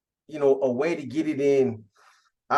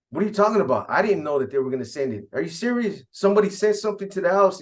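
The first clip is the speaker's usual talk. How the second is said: a mildly disbelieving retold protest, pitched up on the questions; mock incredulous; 4 semitones higher, faster than usual. Prisoner denies to his lady he knew of the package, mildly incredulous. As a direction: act out baffled denial.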